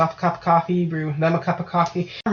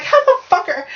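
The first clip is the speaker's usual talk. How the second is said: retold outrage; 11 semitones higher, 3 dB louder than usual. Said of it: "And I'm like".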